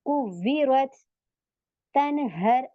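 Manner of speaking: "कुव्विरत" and "तनहर" slowly, closed on vowelless consonants; careful recitation, no vowel after final t and r; original sukoon. Shown as a demonstration. Teacher showing words read as written, "कुव्विरत", "तनहर" with consonant endings. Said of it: "ऐसे ही पढ़ देंगे".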